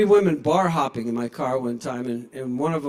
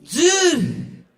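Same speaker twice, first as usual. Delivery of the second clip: much higher, louder coaxing voice; dog-talk voice; 13 semitones higher, 8 dB louder, slower than usual. Retold or imitated. Owner asking the dog in a high excited voice. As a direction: squeal the question to a dog. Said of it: "you're like".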